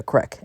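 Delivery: country "crick" for creek. Retold or imitated. Telling fiance about the creek, saying it "crick". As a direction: say creek with a short vowel, crick. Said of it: "what I speak is often not English".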